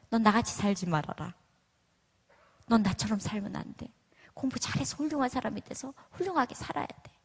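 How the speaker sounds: lightly voiced nagging mom; nagging Korean mother. Mother nagging her child to study, mild mock scolding. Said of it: "그럼 뭐라 그래요?".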